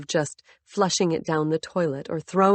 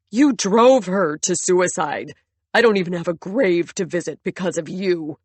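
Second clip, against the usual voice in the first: anguished accusation; 4 dB louder than usual. Acted. Grieving husband accuses.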